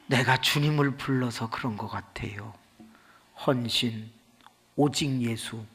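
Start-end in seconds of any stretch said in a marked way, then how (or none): 0.1-2.5 unvoiced gentle whisper stressing 주님을; soft whisper. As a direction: whisper it tenderly to the husband. Wife softly explains.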